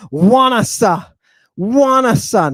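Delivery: "wanasa" opened with a W sound; digamma as W. Shown as a demonstration. Teacher demonstrating a Greek word with hidden digamma, W onset. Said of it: "there is a digamma".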